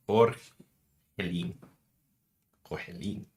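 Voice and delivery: Argentine accent. Shown as a demonstration. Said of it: "go with the accent".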